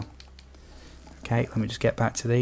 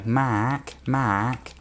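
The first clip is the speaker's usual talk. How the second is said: imitating friends mocking a British accent; 2 semitones higher, 3 dB quieter than usual. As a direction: silly take on a British accent. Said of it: "just doing this stupid bloody interpretation of my accent".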